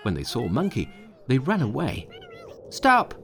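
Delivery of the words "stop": high, loud shout of stop; calling out. A narrator's reading. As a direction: yell after the fleeing imps. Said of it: "he called".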